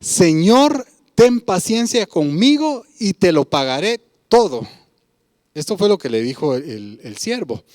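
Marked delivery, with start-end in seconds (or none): 0.0-4.7 a raised, louder plea of a kneeling servant; pleading servant. Acted. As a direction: beg your master for patience. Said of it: "le suplicaba diciendo".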